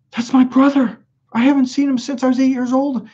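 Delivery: high-pitched imitation of an amazed girlfriend; astonished recognition. Girlfriend spotting her long-unseen brother, imitated high astonishment. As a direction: mimic her disbelief, pitched well up.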